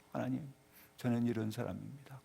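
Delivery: low, soft confession to God; humble prayer. Acted. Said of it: "기도하는 사람은 겸손해집니다".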